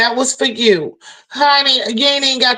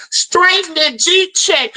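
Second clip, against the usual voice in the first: laughing shout; 5 semitones higher, slower than usual. Real, not acted. Laughing hype about friend.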